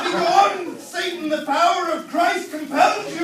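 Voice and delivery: loud, high exorcist shout; mock exorcist bellowing at the coworker; hammed-up exorcism. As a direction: cast her out like a demon. The speaker exorcises Marge.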